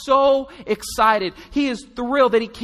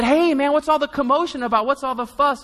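raised, quick eager question; louder, higher excited asking; curious call; 5 semitones higher, 3 dB louder than usual. Retold or imitated. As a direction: grab someone and ask what's going on. Blind man asking a stranger.

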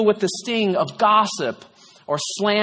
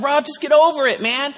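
higher, mildly exasperated friend; retold pep talk, pitched up; exasperated urging; 6 semitones higher than usual. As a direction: urge a friend to shake it off. Friends urging him, acted out.

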